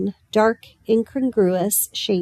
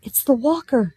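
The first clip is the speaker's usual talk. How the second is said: alarmed; 4 semitones higher than usual. A narrator's reading. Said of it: "He said in alarm".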